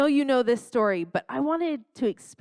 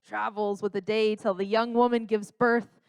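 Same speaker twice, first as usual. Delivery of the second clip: dramatic trailer narrator voice; lightly voiced epic trailer announcer; movie trailer voice. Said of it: "it's that movie trailer guy's voice".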